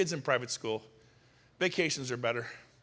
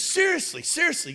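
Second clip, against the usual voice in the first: very high, louder mock disbelief; imitating laughing incredulity; 6 dB louder than usual. Client ribbing his agent about the terrible car, laughing incredulity. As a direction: squeal it like an amused, incredulous client. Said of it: "And he was laughing".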